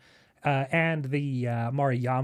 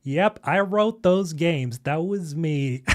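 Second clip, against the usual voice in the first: imagined boast; 3 semitones higher, 4 dB louder, slower than usual. Pretend. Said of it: "he's like".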